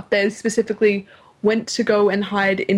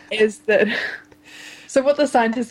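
cracking up mid-line. Real, not acted. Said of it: "sorry, I'm laughing at my own joke".

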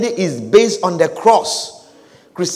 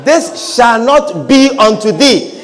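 Peter's rebuke. Acted. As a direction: forbid it flatly. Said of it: "He said".

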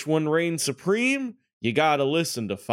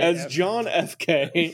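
slow deliberate delivery; 2 semitones higher, slower than usual. Acted. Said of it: "Ju-, just, just say it like".

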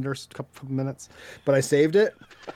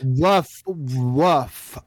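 dog bark; 4 dB louder than usual. Pretend. Pretends to be dog on call.

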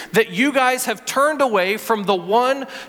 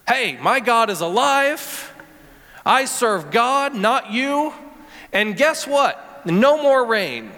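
pro wrestler voice. Acted. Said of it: "Doesn't that sound like a, you know, pro wrestler?".

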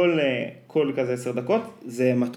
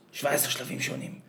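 whispered echo; 8 dB quieter than usual. Retold or imitated. Repeating the show's hushed line.

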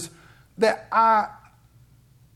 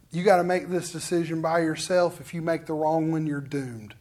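the other voice; 4 semitones lower, 4 dB quieter than usual. Acted. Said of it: "the other voice".

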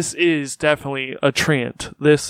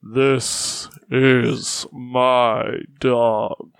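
very slow, lower tree voice; talking tree; 4 semitones lower, much slower than usual. Acted. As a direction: drag each word out like old wood. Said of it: "And it goes".

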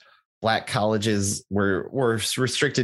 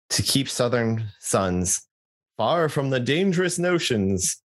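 raised, slowed proclamation; declaration voice; 4 semitones higher than usual. Shown as a demonstration. Reading college history to co-host, in a declaration voice. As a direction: declare it grandly, pitch climbing. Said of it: "that was just my declaration voice".

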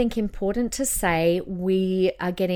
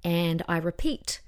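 slowed down; 2 semitones lower, 4 dB quieter, slower than usual. Shown as a demonstration. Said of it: "I slow down".

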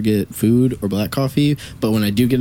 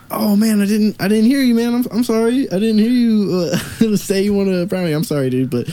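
fake apology; 11 semitones higher than usual. Speaker dodges the brownie request with a fake apology, high. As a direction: bluff an apology to get away. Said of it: "And then I was like".

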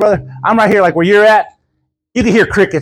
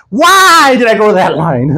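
mock wail on a long, loud why; retold exasperation; 3 dB louder than usual. Woman fuming in her car, mock exasperation. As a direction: imitate her fuming, stretching the first word. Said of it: "I was so mad at you".

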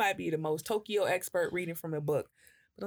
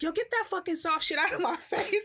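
much higher, laughing mock outburst; mock snapping; 11 semitones higher than usual. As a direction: retell the high snap, laughing through it. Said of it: "So I was like".

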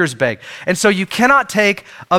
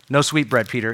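softer, playful scolding of Peter; teasing Jesus; 6 semitones lower, 4 dB quieter than usual. Retold or imitated. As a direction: catch him out with a wink in the voice. Jesus catching Peter's hidden bread.

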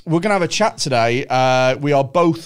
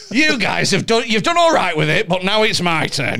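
mock self-importance; 3 semitones higher than usual. Mock self-important white man podcast bit.

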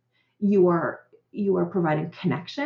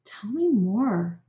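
calm parent. Shown as a demonstration. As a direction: soothe the upset child gently. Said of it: "what I teach parents to do is say".

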